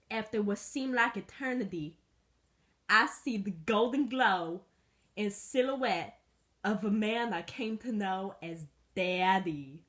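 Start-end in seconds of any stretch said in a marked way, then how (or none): 2.9-9.8 dramatic slow narration. Acted. Mock-epic first sight of owner.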